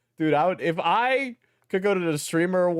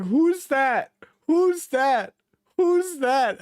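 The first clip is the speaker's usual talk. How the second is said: mock puzzled asking; 10 semitones higher, 3 dB louder, much slower than usual. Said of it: "I'm gonna be like".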